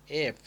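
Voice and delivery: letter-name "eff", clear labiodental f; lip-to-teeth F. Shown as a demonstration. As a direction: show the f in "এফ" made on the teeth. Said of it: "উপরের দাঁতের সাথে ঢুকে যাবে".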